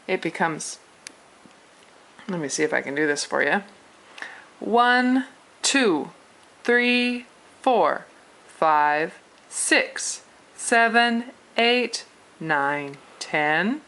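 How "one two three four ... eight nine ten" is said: "One", "three", "seven", "eight" held high and level, "two", "four", "six" falling sharply; English numbers in Mandarin tones. Shown as a demonstration. Teacher showing learners tones on English numbers, Mandarin tones. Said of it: "but use the tones".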